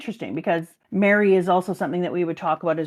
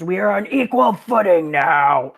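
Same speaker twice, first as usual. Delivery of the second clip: bullish Dalton; 2 semitones lower, 4 dB louder than usual. Retold or imitated. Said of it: "Dalton does turn into a bit of a bull".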